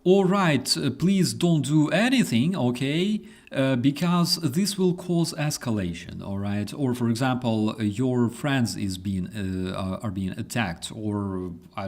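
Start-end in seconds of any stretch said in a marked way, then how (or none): 0.0-6.7 hammed-up calm dispatcher voice; mock 911 dispatcher. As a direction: play a useless dispatcher pleading for calm. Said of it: "They go".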